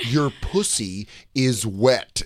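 slow, careful recitation; dialect drill. Acted. Men at conversion camp practising straight talk, slow recitation. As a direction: recite word by word like a pupil in class. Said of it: "He's a bunch of guys going".

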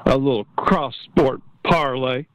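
slow, lightly imitated tipster read; a hint of a measured sports picker; X-Man voice. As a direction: draw out each pick deliberately. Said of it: "try to get my X-Man voice".

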